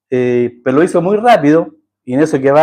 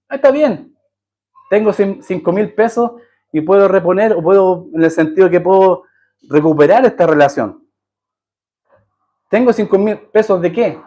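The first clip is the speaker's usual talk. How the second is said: higher, mocking voice of a careless man; smug self-justifying man; 5 semitones higher than usual. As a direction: play the man who thinks he can pay it back, lightly mocked. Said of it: "¿O qué dice el hombre?". (imitación burlona y aguda del hombre que se justifica)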